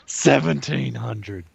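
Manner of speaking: slow drawn-out bid; auctioneer voice. Pretend. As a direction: call the price like an auctioneer. Mock bidding up price.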